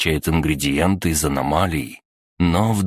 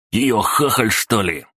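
high-pitched goon voice; thug's jeering challenge; 6 semitones higher than usual. A narrator's reading. Thug taunting the girl's defender, in a high jeer. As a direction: throw it out high, dropping toward the end.

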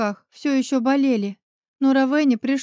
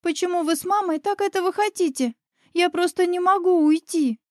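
put-on girl pleading; 6 semitones higher than usual. A narrator's reading. Crying granddaughter protests.

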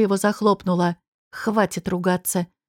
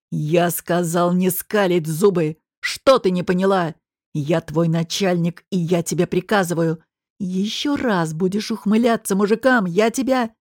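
menacing boss; 3 semitones lower than usual. Acted. Boss threatens the waitress.

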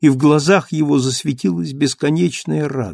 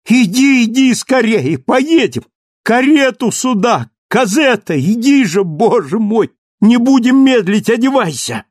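very high, loud, breathless hurry; frantic urgency; 10 semitones higher, 6 dB louder than usual. Acted. Marius hurrying Cosette to dress, frantic and loud. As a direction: rush her, can't wait a second.

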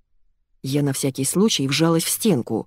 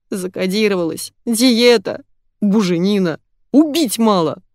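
sobbing; 3 semitones higher, 3 dB louder than usual. A narrator's reading. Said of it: "зарыдав, произнося бессвязные слова".

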